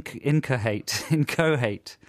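"incohate" read as written, ending like hate; phonetic pronunciation. Shown as a demonstration. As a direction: sound out "incohate" slowly, with a clear HATE. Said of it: "I pronounce it phonetically".

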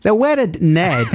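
slow, drawn-out Glasgow vowels; Glaswegian accent. Acted. Host repeating the bit co-host praised, Glaswegian accent. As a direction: savour each word in broad Glaswegian. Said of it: "That's so uncanny, that bit".

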